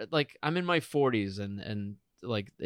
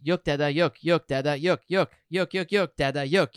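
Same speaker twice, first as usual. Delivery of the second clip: insistent repeated babble, imitating a small child; toddler babble. Mother mimics her daughter's new favorite words, toddler babble. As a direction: punch out each word in a steady toddler loop. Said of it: "what her big thing now is".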